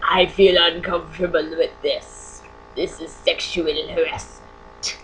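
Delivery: slow, drawn-out mock complaint; mock aggrieved coworker. Coworker cornering another in the bathroom, mock solemn complaint. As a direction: spell out the grievance slowly, hammed-up.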